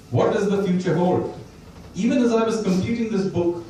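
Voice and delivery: reading a passage aloud to an audience; steady author's reading voice; book reading. Shown as a demonstration. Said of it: "I'm gonna read the very last section of the book".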